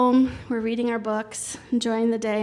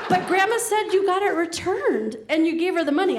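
laughing disbelief; 8 semitones higher than usual. Retold or imitated. Mom piecing it together.

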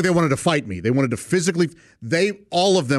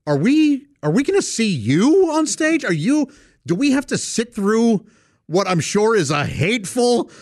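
high, breathless dread of a nasty show; worried audience member; 8 semitones higher than usual. Retold or imitated. Ticket holders fearing a hateful act, raised anxious pleading. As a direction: pitch it up like an anxious patron. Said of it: "looking at me like".

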